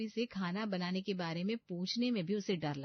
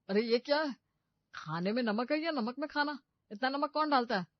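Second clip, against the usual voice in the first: disgusted surprise; 5 semitones higher, 4 dB louder than usual. Acted. Husband spits out salty food.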